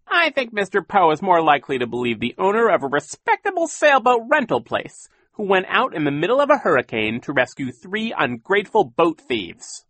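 high, mocking villain voice rising on orphans; sneering villain. A narrator's reading. Captain Sham taunting the orphans, high and mocking. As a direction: taunt them like a smug pirate.

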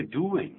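"doing" said wrongly as "du-yin"; "doing" ending in a Chinese-style "yin"; mispronounced doing. Shown as a demonstration. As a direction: show the mistake: "doing" with a y glide, "du-yin". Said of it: "可不要念doing".

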